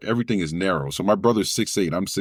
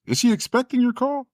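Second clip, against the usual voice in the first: front desk voice. Retold or imitated.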